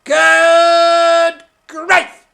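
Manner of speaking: loud high puppet alarm; startled. Acted. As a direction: yelp in alarm. Punch startled by Judy.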